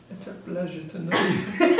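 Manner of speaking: ironic pleasantry with a laugh; mock courtesy, laughing. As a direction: say it politely while chuckling. Ironic greeting to police chief.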